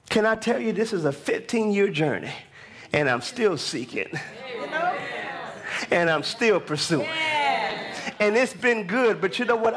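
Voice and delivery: driving, emphatic preacher's cadence; preaching. Real, not acted. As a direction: build the testimony like a preacher.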